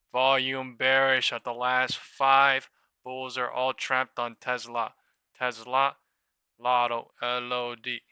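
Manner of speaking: loud, slow calling of the market. Real, not acted. Trader calling out the close loudly to his viewers. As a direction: call it out to the chat.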